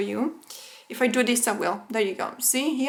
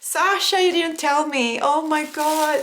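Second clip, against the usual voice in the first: about to cry; 4 semitones higher than usual. Real, not acted. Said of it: "I'm gonna cry".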